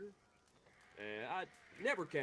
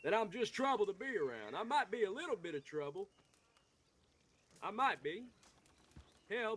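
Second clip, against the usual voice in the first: getting pissed off; 4 semitones higher than usual. Acted. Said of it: "I'm sorry I'm getting pissed off now".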